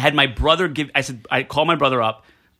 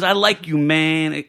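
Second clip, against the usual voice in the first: mock Puerto Rican; much slower than usual. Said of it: "he thinks he's Puerto Rican".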